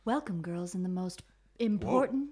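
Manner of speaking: stiff, formal teacher voice; a hint of a strict old schoolmistress; stern headmistress voice. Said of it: "That was an incredible impression".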